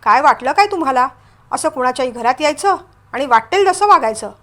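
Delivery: mildly heated telling-off; flaring up. Acted. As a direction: confront them with a touch of outrage. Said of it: "Shirish भडकून म्हणाला".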